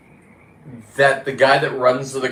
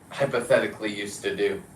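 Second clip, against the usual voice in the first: knowing aside; 2 semitones lower, 5 dB quieter than usual. Real, not acted.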